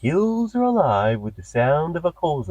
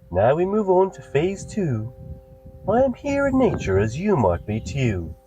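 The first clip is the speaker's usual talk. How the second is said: guided meditation. Acted. Host guiding listeners through a nature meditation, soothing. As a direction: lull the listener into the nature scene.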